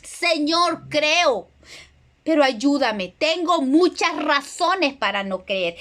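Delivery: a touch of earnest pleading, slowing at the end; mild retold cry to the Lord, heartfelt; tearful plea. Preacher retells the father crying out to Jesus, gently tearful. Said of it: "que con lágrimas clamó".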